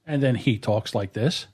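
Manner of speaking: close-miked, slow and full; up on the mic. Shown as a demonstration. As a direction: lean into the mic, unhurried. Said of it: "this booming voice and he's right up on the mic".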